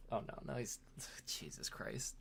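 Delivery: whispered, sighing dismay. Real, not acted. Transforming a figure on stream, a whispered groan. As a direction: breathe it out under your breath as the toy gives. Toy breaking while he transforms it.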